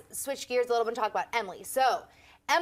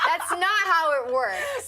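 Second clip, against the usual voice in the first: slow, laughing and louder; laughing emphasis; 4 semitones higher, 4 dB louder, much slower than usual. Real, not acted. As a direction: drag it out laughing. Emphatic agreeing punchline.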